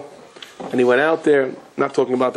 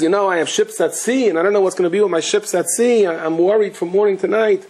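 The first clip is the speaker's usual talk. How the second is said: higher, fretful voice; a touch of an anxious merchant; worried merchant; 6 semitones higher than usual. Retold or imitated. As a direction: fret about the ships. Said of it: "And he says".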